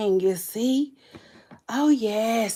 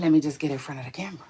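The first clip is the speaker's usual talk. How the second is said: quick, louder repeat; 6 semitones lower, 3 dB louder, much faster than usual. Shown as a demonstration. To her viewers, a fast loud repeat. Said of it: "I said".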